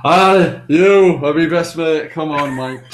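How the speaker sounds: put-on loud, hammy Dutch accent; a joking stab at a Dutch accent. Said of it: "It's a Dutch accent".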